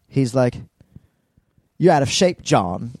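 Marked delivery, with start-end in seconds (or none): 1.8-2.9 mock Australian movie villain; hammed-up Australian bad guy; Australian accent. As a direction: taunt lightly in a put-on Australian accent. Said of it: "he has an Australian accent".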